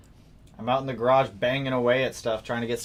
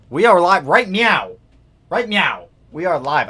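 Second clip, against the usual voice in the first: excited; 5 semitones higher, 10 dB louder than usual. Real, not acted. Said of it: "answering chat, hyped".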